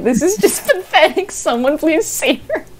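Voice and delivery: high voice lightly imitating appalled onlookers; mock pitying viewers. Streamer voicing viewers watching her flop, mock pitying. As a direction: lightly mimic viewers in high, amused despair.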